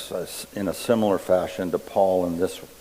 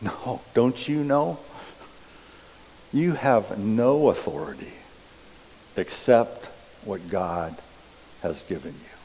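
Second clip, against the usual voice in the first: calm reply. Acted. Jesus answers Pilate calmly.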